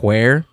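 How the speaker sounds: "where" with a breath of H first; sounded H. Shown as a demonstration. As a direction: start "where" as "hw". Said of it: "pronounce the, the H's in front".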